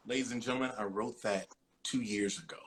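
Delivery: hushed, unvoiced aside; a whispered confession to the audience. Real, not acted. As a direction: lean in and whisper it.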